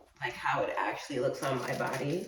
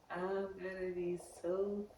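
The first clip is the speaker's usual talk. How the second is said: laughing; 4 semitones higher, 6 dB quieter than usual. Real, not acted. Laughing repeat of worry.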